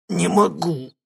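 captured scientist begging in panic; frightened babble. A narrator's reading. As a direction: squeak it out in terror. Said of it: "пролепетал Ларионов".

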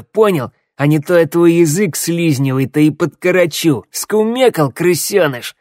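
gruff creature intimidation; menacing threat. A narrator's reading. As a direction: threaten and bully, punching the stresses. Second creature threatens the captive.

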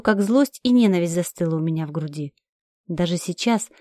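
usual speaking voice

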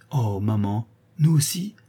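light up with joy; delighted cry. Acted. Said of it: "s'écria Zina, rouge de plaisir".

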